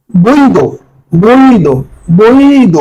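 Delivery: "বৈধ" with the first vowel drawn out as a glide; pronunciation demo. Shown as a demonstration. Teacher showing exam students a pronunciation, "বৈধ" stretched out. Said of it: "শব্দের উচ্চারণ নিয়ে আলোচনা করব".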